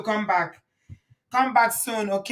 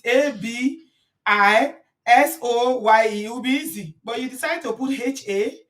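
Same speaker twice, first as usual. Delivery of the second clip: spelling out letters; 4 semitones higher, 4 dB louder than usual. Real, not acted. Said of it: "spelling the name out".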